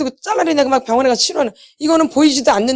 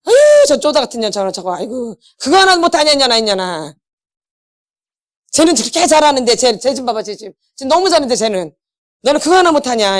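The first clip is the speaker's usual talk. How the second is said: scolding parent. Retold or imitated. Mother berates child against a sibling, mock scolding. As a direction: sneer and nag like a mother comparing kids. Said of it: "정서적으로 잘, 잘하겠죠".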